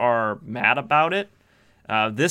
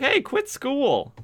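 high, slow mock voice of a shady shop owner; mock sleazy shopkeeper; 14 semitones higher, slower than usual. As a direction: ham up the creepy owner luring kids. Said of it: "He's like".

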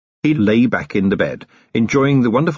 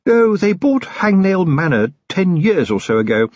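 drowsy, higher voiced Sybil mumbling; sleepy wife half buried in pillows; dormouse; 6 semitones higher than usual. A narrator's reading. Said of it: "she mumbled drowsily".

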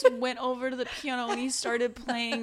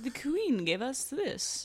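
posh aristocrat voice; 6 semitones higher, slower than usual. Retold or imitated. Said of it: "He's like".

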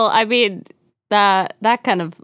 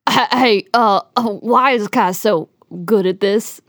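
stuttering reader. Pretend. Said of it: "that many stutters".

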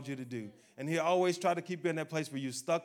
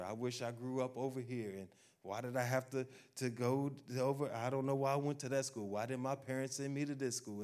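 soft, low wishful grumbling; mock self-pity; 3 semitones lower, 6 dB quieter than usual. Preacher acting out endless insecure wishes, softly self-pitying. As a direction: voice someone quietly regretting their lot. Voicing a person's regretful self-doubt.

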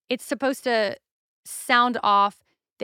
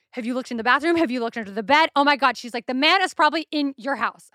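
freaking out; 2 semitones higher, faster than usual. Retold or imitated. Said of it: "She's freaking the fuck out".

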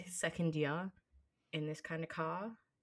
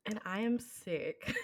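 laughing; 6 semitones higher, slower than usual. Real, not acted. Laughing while announcing she is sick.

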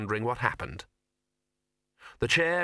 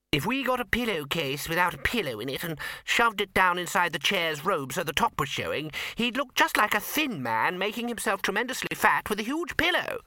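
much higher, rising to an excited peak; enthusiastic; 8 semitones higher than usual. A narrator's reading. Eager wizard suggesting a pillow disguise: rising excitement. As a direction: gush the idea faster and faster. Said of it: "said one of them enthusiastically".

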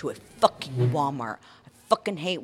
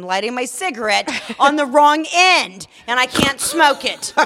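higher and louder, laughter breaking into the line; laughing through words; 7 semitones higher, 7 dB louder than usual. Real, not acted. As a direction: giggle at the absurdity as you say it. Laughing at her own panic.

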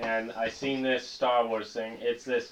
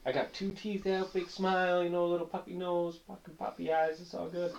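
friendly Chewbacca voice; 5 semitones higher than usual. Retold or imitated. Voicing the toy's friendly face, sweet and high. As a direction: coo it like a happy toy. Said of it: "and he's like".

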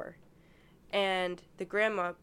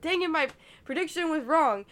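higher, louder mock outburst; retold frustration; 7 semitones higher, 7 dB louder than usual. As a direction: act out being mad at a wrong guess. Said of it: "I'm getting all mad".

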